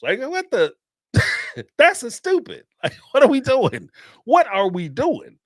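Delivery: laughing disbelief. Real, not acted. Mocking college party antics.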